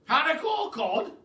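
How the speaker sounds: loud, high, spat out in disgust; disgusted shout. Acted. The Duke scorns the pelican's fish request, loud disgust. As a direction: spit the words like a bad taste. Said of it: "shouted the Duke, spitting out the words".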